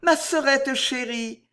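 voix tendre, haute et lente; murmure de Juliette. A narrator's reading. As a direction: appelle la petite sœur chérie, en traînant, voix haut perchée. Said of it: "murmura Juliette". (murmure affectueux, joué dans l'aigu)

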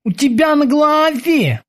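high-pitched boatswain answering; boatswain's character voice. A narrator's reading. Kiki answers the dazed prisoner, high character voice.

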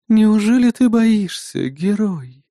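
slow, imperious demoness taunt; commanding voice. A narrator's reading. Demoness taunting the hero from nowhere, commanding. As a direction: lord it over the hero, slowly. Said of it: "раздался из ниоткуда властный и знакомый голос".

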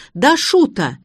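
yell. A narrator's reading. Garik hollers up the stairs, loud. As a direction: holler across the house. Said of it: "воплем Гарика".

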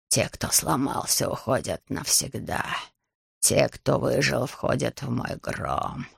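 very low, slow, hushed dragon voice; growling dragon. Acted. Dragon Ryuji coldly judging the fallen dragon, low and slow. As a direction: rumble it low like an ancient beast. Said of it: "слова переплелись с рычанием".

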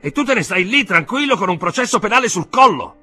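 very high, loud indignant shout; exclaiming, voice rising. A narrator's reading. Uncle appalled at his nephew's calm, shouting. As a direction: shout it in outraged disbelief. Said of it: "esclamò lo zio alzando sempre più la voce".

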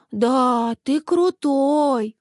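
put-on slow, drawn-out kids' voices agreeing; kids agreeing. A narrator's reading. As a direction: stretch out the praise like a child. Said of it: "соглашались Рита и Вася".

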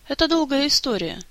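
put-on high, brighter boy voice; Efey's voice. A narrator's reading. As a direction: sigh it as a young boy. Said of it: "голосом Эфея".

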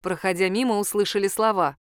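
plain reading voice

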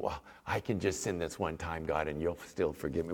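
low, softly muttered aside to God; casual excuse. Acted. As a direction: mildly imitate someone quietly excusing themselves. Voicing people with presumptuous mentality.

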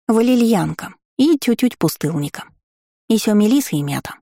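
thoughtful lisping little gargoyle, high; a musing lisp, like a small creature; grinding stone gravel voice. Acted. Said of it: "задумчиво сказала". (задумчивый шепелявый голосок горгульи)

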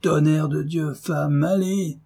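high, cursing fury; husband cursing his wife in rage; furious curse. A narrator's reading. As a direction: spit out the curse at her. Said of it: "s'écria Jacques furieux".

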